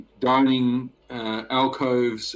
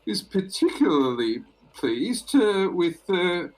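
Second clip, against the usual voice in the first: much higher female receptionist voice; woman at the desk; 8 semitones higher, 3 dB louder than usual. Acted. Lyra at the desk welcomes the noble traveller, in a high lady's voice. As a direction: greet the guest sweetly, pitched high.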